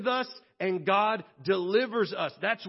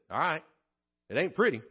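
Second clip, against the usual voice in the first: lower, slowing, sincere resolve; God resolved and tender; 5 semitones lower than usual. Acted. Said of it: "God rolled up his sleeves and said".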